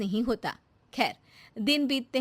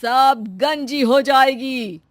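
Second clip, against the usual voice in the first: baba's curse; 3 semitones higher, 8 dB louder than usual. Acted. Baba curses Shanti.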